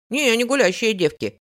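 put-on loud, self-important kid; importantly explaining boy. A narrator's reading. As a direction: explain it like a proud little boy. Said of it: "важно пояснил Реми".

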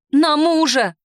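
high, loud, eager exclamation; eager blurt. Acted. Heroine eagerly accepting the stranger as husband, excited blurt. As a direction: blurt it out with glee.

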